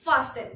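"fasten" as FAH-sen; silent t. Shown as a demonstration. Teacher restating the correct word, "fasten" as FAH-sen. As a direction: say "fasten" dropping the t. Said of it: "The word is".

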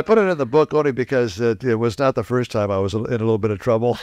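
chuckling through the words; amused, laughing admission. Real, not acted. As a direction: let a laugh slip in as you admit it. Jim chuckles recounting his mishap.

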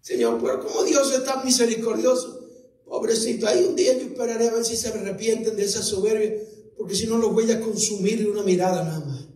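lightly voiced God, low and pitying; imagined God, pitying. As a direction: speak as God shaking his head at a clown. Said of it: "me imagino a Dios mirando así".

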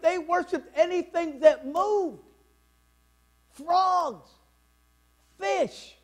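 preacher getting fired up, voice climbing; worked up. Real, not acted. Preacher fired up about Jacob leaving, worked-up preaching. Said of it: "I'm all worked up".

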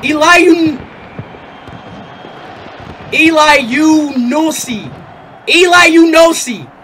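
drawn-out, careful syllables; slowly sounding out. Real, not acted. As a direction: spell the name out slowly. Sounding out odd name.

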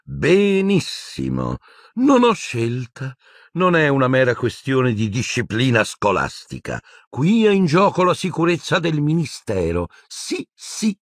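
high-pitched, agitated villainess; talking herself into it. A narrator's reading. Umbridge convincing herself to punish Harry, high and agitated. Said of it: "Sembrava che si volesse convincere a fare qualcosa".

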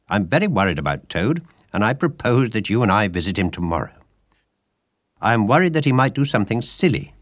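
high, loud, anxious Rat; worried Rat. A narrator's reading. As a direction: sound worried for a friend. Rat worried about Toad.

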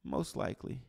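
hushed, hesitant hedge; watered-down answer. Acted. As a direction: mumble it softly, unwilling to commit. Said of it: "in our watered down language, we say".

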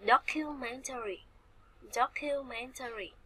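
slow, evenly drawn-out "Documentary"; slow model reading. Shown as a demonstration. Teacher has students read along, slow careful delivery. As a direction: stretch it out syllable by syllable for learners.

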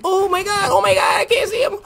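very high frantic cry; panicked squeal. Real, not acted. Panicking, lost enemy.

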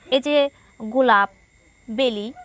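গোলাপ then a short break, বেলি then a short break; pause after each word. Shown as a demonstration. Teacher repeating the words to mark the comma pauses. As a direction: leave a little gap after গোলাপ and বেলি. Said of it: "এই শব্দ দুটি বলার পর কিন্তু সামান্য একটি থামছি আমি".

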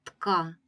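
"тка" alone, loud and separate; isolated syllable. Shown as a demonstration. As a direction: sound out "тка" as one firm beat. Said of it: "другий склад".

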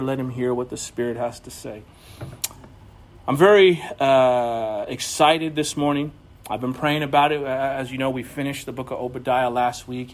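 ordinary talk

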